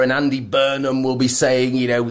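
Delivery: ordinary talk, nothing marked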